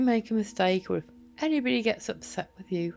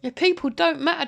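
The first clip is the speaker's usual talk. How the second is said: an enraged outburst, much higher and louder; furious shouting; 5 semitones higher, 5 dB louder than usual. Real, not acted. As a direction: shout it, bitter and outraged, drawing the words out. Furious rant at Martin.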